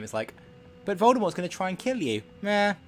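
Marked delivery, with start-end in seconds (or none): 0.8-2.2 mock dramatic warning. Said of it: "They're all very nonchalant in this game". 2.4-2.7 dismissive shrug of a meh, pitched higher; nonchalant meh. Retold or imitated. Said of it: "They're all very nonchalant in this game".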